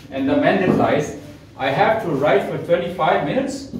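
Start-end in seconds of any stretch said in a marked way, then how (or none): 1.6-3.7 "I have to write for twenty-five minutes" with strong rising emphasis; emphatic echo, pitch swinging up at the end; emphatic reply. Shown as a demonstration. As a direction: stress the words and lift "minutes" like a disbelieving question. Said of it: "the lot of emphasis".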